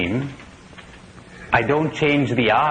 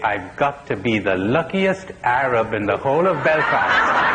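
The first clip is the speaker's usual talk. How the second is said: laughing. Retold or imitated. Punchline delivered while laughing.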